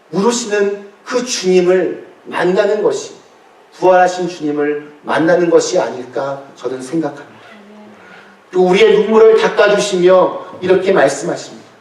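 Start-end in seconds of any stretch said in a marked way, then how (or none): none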